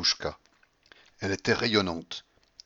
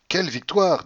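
high, louder exclamation; admiring exclamation; 9 semitones higher, 6 dB louder than usual. Acted. De Grier flatters the winning old lady, admiring exclamation.

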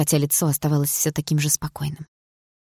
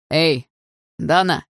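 restrained call from afar; distant shout; 3 dB louder, much slower than usual. A narrator's reading. Andrei calling to Dana from afar, mild shout. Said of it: "издалека прокричал Андрей".

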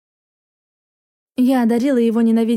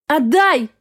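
desperate cry; 4 semitones higher than usual. A narrator's reading. Mother fighting for her child.

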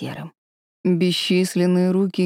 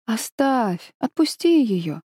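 pitying; 4 semitones higher, slower than usual. Acted. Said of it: "сказала с жалостью".

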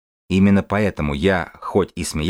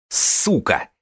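high sharp retort; shouting back; 6 semitones higher than usual. Acted. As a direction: fire it back, pitched up. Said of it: "кричит в ответ Карлос".

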